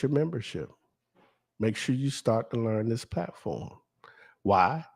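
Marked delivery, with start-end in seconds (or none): 1.6-3.7 whisper. Real, not acted. Urging viewers, dropped to whisper.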